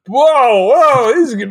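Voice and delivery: high-pitched onlooker's alarm; mock alarm. Onlooker watching a frat house fight, mock alarm. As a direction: react as if a fight is kicking off.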